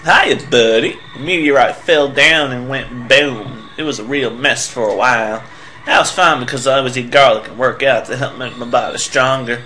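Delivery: lightly put-on southern accent. Billboard guy chatting about the meteorite, southern accent. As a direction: read it with a touch of southern twang. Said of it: "started talking in a southern accent".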